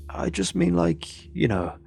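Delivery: lightly voiced drunk friend, hesitant then easing off; tipsy mate, placating. Charlie reassures the sour narrator, lightly tipsy and placating. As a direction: soothe a friend with halting, casual reassurance.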